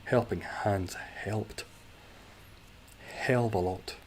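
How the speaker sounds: slow, deliberate on each H; slow careful retry. Shown as a demonstration. Streamer retries a tongue twister, slowly. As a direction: carefully spell out every H sound. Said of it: "That was a lot of H's".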